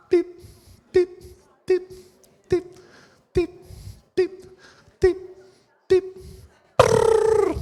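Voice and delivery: high piping chirps, then a trill; playful high-pitched pip-pip noises; imitated chirping. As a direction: chirp high and quick like a little bird. Imitating sounds to scare child.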